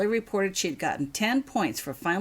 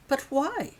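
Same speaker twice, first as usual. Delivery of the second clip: sharply higher, stunned question; astonished; 10 semitones higher than usual. A narrator's reading. Girl stunned by her guardian, astonished. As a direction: ask it in disbelief. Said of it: "in astonishment".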